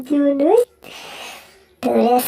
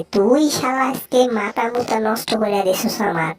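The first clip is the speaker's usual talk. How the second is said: lower, sulky threats; low grumbling cat; 3 semitones lower than usual. Acted. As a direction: grumble revenge under the breath. Low angry character.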